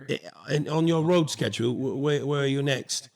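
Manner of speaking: lightly imitated British director; British accent. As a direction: ask casually with a touch of British accent. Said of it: "in that British accent".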